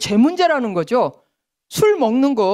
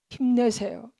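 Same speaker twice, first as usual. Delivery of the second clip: softer polite cheering-up; soft encouragement; 7 dB quieter than usual. Retold or imitated. Someone cheering up a depressed person, softly. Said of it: "제일 듣기가 싫은 말".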